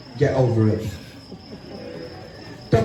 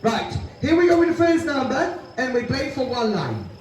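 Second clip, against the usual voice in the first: bingo caller; 3 semitones higher than usual. Acted. Calls bingo numbers.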